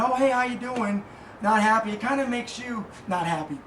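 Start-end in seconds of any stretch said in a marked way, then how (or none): 0.0-1.0 slow, mildly downcast hello; a touch of gloom in a slow hello; glum greeting. Retold or imitated. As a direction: imitate a frowning, unhappy greeting. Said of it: "who's kinda, you know, frowning".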